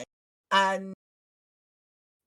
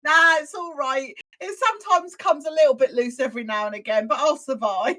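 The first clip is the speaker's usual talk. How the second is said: laughing through the quote; 4 semitones higher, 5 dB louder than usual. Real, not acted. Laughing while retelling the call.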